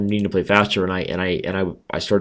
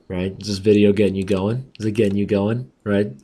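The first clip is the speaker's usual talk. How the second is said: playful raspy sultry tone; teasing the viewers in a rasp. Real, not acted. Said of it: "dig my new raspy voice".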